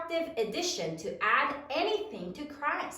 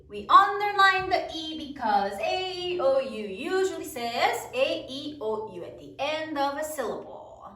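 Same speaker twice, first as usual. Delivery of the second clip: measured classroom chant of a rule; choral recitation. Shown as a demonstration. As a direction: lead the class in reciting together. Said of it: "say it with me".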